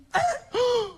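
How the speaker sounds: high sharp gasp of shock; gasp, startled the cab stopped; mock-frightened gasp as the cab stops.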